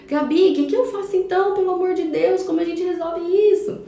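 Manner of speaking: desperate parent. Retold or imitated. Viewer mother pleading with Gabi for help. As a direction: play the exasperated mother begging for help. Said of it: "imagined mother asking Gabi".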